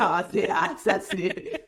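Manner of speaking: words broken by laughter; laughing. Real, not acted. Host laughs while starting her anecdote, laughing.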